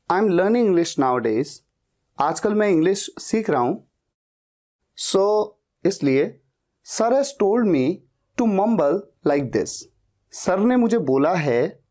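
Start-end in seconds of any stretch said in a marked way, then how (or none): 0.1-1.5 slow, careful English line; slow model answer. Shown as a demonstration. Teacher gives the slow answer to memorize. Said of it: "आपको कहना है". 6.9-9.7 slow and deliberate; slow model answer. Shown as a demonstration. Teacher models the excuse slowly for students. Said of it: "आपको कहना है".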